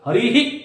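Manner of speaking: हरिः with a faint "hi" echo, not a full "hee"; हरिः ending in a light, short "hi"; correct visarga. Shown as a demonstration. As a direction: soften the echo after हरिः. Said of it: "ही भी नहीं होगा".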